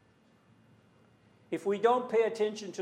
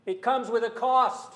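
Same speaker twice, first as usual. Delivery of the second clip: forceful, louder preaching line; loud emphatic preaching; 4 semitones higher, 5 dB louder than usual. Real, not acted. Preacher pressing the congregation with a loud emphatic line. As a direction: drive the point home loudly. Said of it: "Sorry for getting loud".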